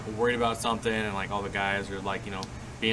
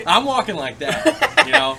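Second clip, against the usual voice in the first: laughing hard, voice pitched way up; 13 semitones higher, 11 dB louder than usual. Real, not acted. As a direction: crack up mid-sentence. Laughing while describing swagger.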